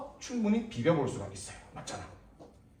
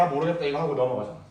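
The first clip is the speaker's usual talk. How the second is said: giving up; 4 semitones lower, faster than usual. Shown as a demonstration. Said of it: "내가 극단적 예를 보여줄 거야".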